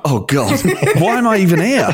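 high, laughing mock despair; embarrassed self-mockery. Voice actor mocking himself for failing an accent, embarrassed wail. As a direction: wail it in embarrassment through giggles. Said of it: "I find it really embarrassing".

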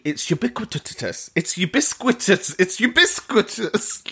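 "ubiquitous" tripped over, syllables garbled; "ubiquitous" said wrongly as "ubis-quitous"; fumbled word. Shown as a demonstration. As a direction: keep stumbling on "ubiquitous". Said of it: "I can't actually say it".

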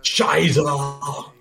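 put-on German accent. Shown as a demonstration. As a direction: curse in a mock German accent. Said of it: "This is me doing a German accent".

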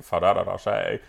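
"Ferrero Rocher" low and soft, r's tapped like d's; Euro pronunciation. Retold or imitated. Man correcting her, "Ferrero Rocher" in low Euro pronunciation. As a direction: imitate his Fa-dadda Ro-shay for "Ferrero Rocher". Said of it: "a Euro way of saying it".

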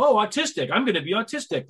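lightly sends up a careless choice; mock flippant choice. Mocking people who think she chose her autism, breezy mock voice. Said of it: "pick something out of a hat and go".

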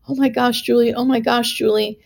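put-on high, giddy kid in a candy store; excited kid. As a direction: squeal it like a thrilled little kid. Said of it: "like a little kid in a candy store".

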